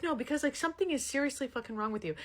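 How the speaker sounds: retold quarrel. Woman fights with her partner mid-flight, retold scolding.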